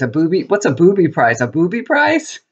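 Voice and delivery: incredulous rising question, lightly mocked; puzzled kids' question. Grandmother retelling the boys' reaction to booby prizes, puzzled. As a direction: imitate baffled boys, pitch climbing at the end.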